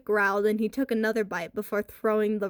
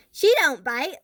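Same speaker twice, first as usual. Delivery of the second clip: insisting; 5 semitones higher, 7 dB louder than usual. A narrator's reading. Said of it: "Lewis promised".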